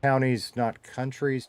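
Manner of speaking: slow, leaning on counties then countries; slow contrast of counties and countries; careful contrast. Shown as a demonstration. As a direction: spell out the difference between the two words. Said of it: "but I said".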